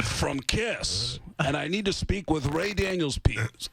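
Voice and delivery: deliberate, self-important rock star. Retold or imitated. Rock star asks for band manager, imperious. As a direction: expect to be put straight through. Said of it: "this is the rock star".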